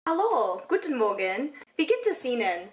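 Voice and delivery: beginner German with an American accent; careful first-lesson German, American accent. Shown as a demonstration. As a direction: try out German greetings like an American learner. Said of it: "I just sound like a stupid American trying to speak German".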